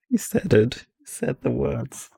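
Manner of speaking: high meme voice in English; meme quote voice. Retold or imitated. (Meme-Zitat mit hoher Stimme)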